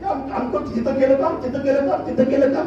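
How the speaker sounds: repetitive parroting of a rival's refrain; mock self-praise on a loop; mocking drumbeat boast. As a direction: chant the boast mockingly, like a beaten drum. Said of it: "त्यांची डपली अशी वाजते".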